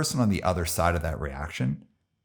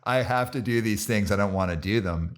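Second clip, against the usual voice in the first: lightly voiced reluctant complainer; a hint of a dopey objector; stupid person voice; 3 semitones higher than usual. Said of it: "stupid person voice".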